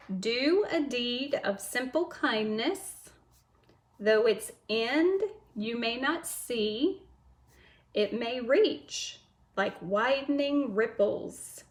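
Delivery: slow, measured recitation; poem reading. Shown as a demonstration. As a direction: read each line slowly, like a poem. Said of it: "you have to listen carefully".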